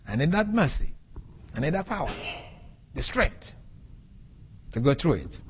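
a believer praying through pain, rising then hushed; believer's prayer. Retold or imitated. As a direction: beg the Lord for strength, then fade to a hush. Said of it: "You say".

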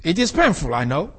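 a believer praying through pain, rising then hushed; believer's prayer. Retold or imitated. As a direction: beg the Lord for strength, then fade to a hush. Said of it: "You say".

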